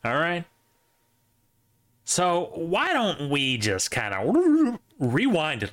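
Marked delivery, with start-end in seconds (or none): 2.0-5.7 slowed-down rewind noise; tape rewinding. Pretend. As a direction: drag the words like a rewinding tape. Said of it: "that's my rewind noise".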